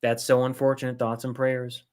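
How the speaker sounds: fake-sincere, dismissive; mock sympathy. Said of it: "the most they'll do for you is say".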